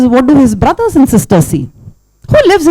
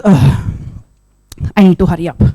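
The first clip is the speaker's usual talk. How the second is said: hurried turtle; 6 semitones lower, faster than usual. Acted. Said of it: "Tiltil says".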